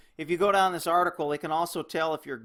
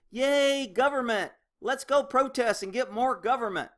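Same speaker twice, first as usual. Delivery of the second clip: sarcastic cheer; 6 semitones higher than usual. Pretend. Mock cheer for government.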